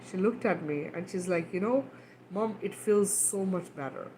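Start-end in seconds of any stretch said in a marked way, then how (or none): 1.5-4.1 put-on soft retelling of a relieved child; calmed down. Daughter telling mom after venting, calmed down. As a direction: say it softly, as if calm after an outburst. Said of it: "when she had calmed down".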